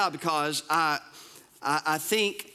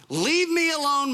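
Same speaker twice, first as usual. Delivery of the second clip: stern command; 8 semitones higher, 4 dB louder than usual. Acted. God angrily reads out to Moses.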